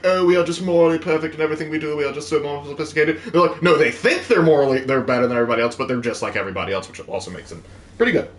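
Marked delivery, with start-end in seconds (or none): 0.0-3.2 lightly mocking smug elf; a hint of a pitched-up, superior elf; self-righteous elves. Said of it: "I'm tired of saying, like, elves".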